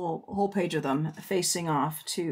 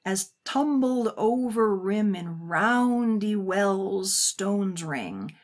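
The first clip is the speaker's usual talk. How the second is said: slow evocative reading; much slower than usual. Shown as a demonstration. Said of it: "picture now".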